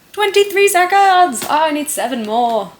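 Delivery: high, loud cry of exasperation; exasperated outburst. Real, not acted. Vlogger timing her script and falling short, exasperated outburst.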